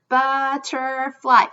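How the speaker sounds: butterfly stretched in three slow beats; syllable by syllable. Shown as a demonstration. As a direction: draw out each part of butterfly. Word broken into syllables.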